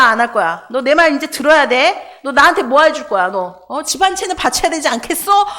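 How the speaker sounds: hammed-up hustler badgering the woman for payment; mock con man Jesus. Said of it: "이거 완전 사기꾼이죠". (다그치는 사기꾼 흉내, 약간 크게)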